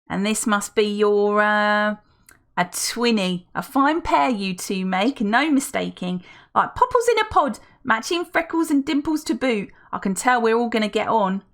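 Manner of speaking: high, loud, gushing lady voice; gushing older woman. Acted. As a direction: coo over the twins. Felicity meets the twins.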